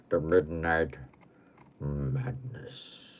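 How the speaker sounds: slow, low, dropping into a hush; ominous and drawn out; spooky title reveal. Pretend. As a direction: intone it like a horror host.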